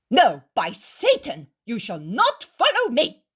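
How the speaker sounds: loud, high threatening shout; angry threat. A narrator's reading. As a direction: threaten to strike them, slowing on orders. Innkeeper threatens the Pharisees.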